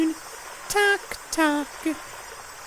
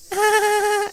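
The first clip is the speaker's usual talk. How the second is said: eerie little laugh; 2 semitones higher than usual. Acted.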